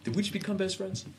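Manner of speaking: high, hammed-up Step Brothers line; high movie quote voice. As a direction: squeal it like a giddy man-child.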